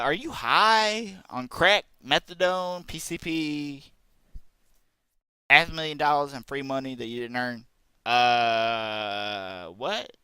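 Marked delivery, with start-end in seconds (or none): 0.0-7.7 angry rant. Real, not acted. Ranting at Anita.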